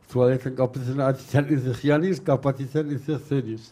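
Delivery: lightly imitated Erzurum dialect; a hint of Erzurum accent in an acted quote. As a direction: retell it like an Erzurum local. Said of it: "onun şivesi de böyle".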